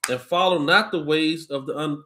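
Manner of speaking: slow, measured Bible reading voice; scripture reading. Acted. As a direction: read it out like a preacher at the lectern. Reads scripture.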